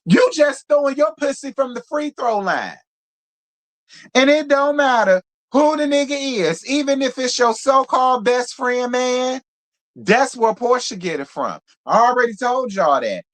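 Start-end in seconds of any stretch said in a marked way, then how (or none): 0.0-11.6 mock outraged shout. Reality show recapper yelling at Diana. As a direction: shout it out like you can't believe her. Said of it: "I said".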